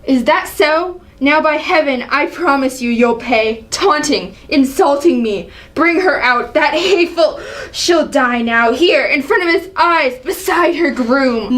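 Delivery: angry accusation. Acted. Father accusing his son, angry. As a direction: lash out at a disloyal son. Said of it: "Seeing the angry side of Allie".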